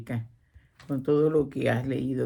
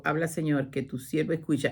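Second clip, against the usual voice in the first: hushed, softer "Habla, Señor"; softer prayer; 5 dB quieter than usual. Shown as a demonstration. The speaker praying to God, quiet and calm. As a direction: pray it inwardly, gently. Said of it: "Estoy haciendo una cita bíblica".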